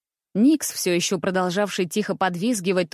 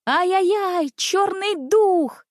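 high, slow squeal of terror; terrified shriek; 10 semitones higher, slower than usual. A narrator's reading. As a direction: shriek at the black spirit. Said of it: "взвизгнул не своим голосом Никс".

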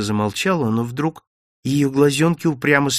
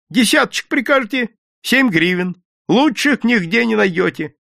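hawker's pitch; 11 semitones higher, 4 dB louder than usual. A narrator's reading. Hawker selling oranges.

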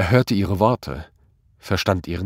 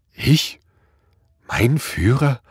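loud, high rising questions; incredulous; 5 semitones higher, 5 dB louder, slower than usual. A narrator's reading. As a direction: throw the accusation back in disbelief. Husband stunned by wife's accusation. (ungläubig zurückgefragt)

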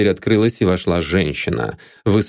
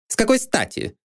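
high, indignant retort; 3 dB quieter than usual. A narrator's reading. Maid Anne indignant at the detective's questions. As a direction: bristle with indignation. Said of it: "возмущённо спросила мисс Лиффорд".

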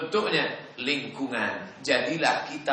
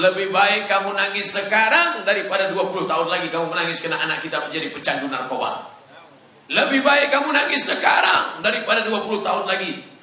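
loud, raised insistent scolding of the wife; firm husband lecture; 7 semitones higher, 6 dB louder, faster than usual. Retold or imitated. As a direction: drive the warning home to her. Suami menasihati istri dengan tegas. (suami menegur istri dengan keras dan tinggi)

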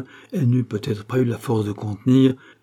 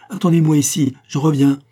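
louder, higher call to hold on; raised, commanding call; 6 semitones higher, 6 dB louder than usual. A narrator's reading. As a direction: call briskly to the men to wait. Queen calls as she leaves.

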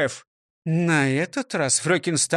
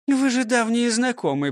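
light, higher chirpy voice; a lightly chirped greeting; 7 semitones higher than usual. A narrator's reading. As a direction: chirp it brightly like a bird. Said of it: "прощебетала Фрёкинсталь".

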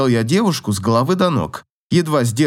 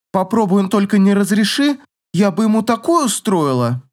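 put-on higher, pouting girl; lightly voiced sulking girl; sulky threat; 6 semitones higher than usual. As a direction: sulk and threaten. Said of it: "насупилась она".

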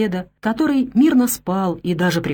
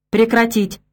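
stern command; 4 semitones higher, 4 dB louder than usual. Acted. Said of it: "скомандовала она своим густым контральто".

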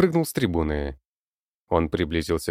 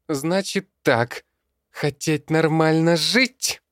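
high, loud broken-Russian goblin, slow; slow menacing goblin; 5 semitones higher, 3 dB louder, slower than usual. A narrator's reading. Goblin offers a deal for the child, high and slow. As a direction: gloat over the bargain.

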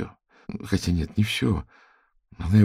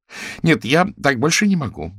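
higher and louder, at the end of her rope; breaking down; 8 semitones higher, 4 dB louder than usual. Acted. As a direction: burst out unable to hold it in. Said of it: "не выдержав".

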